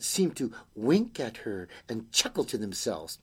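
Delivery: animated storytelling with swooping pitch; story narration. A narrator's reading. Reader tells children of a night visitor, animated storytelling. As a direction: draw the listeners in, leaning on key words.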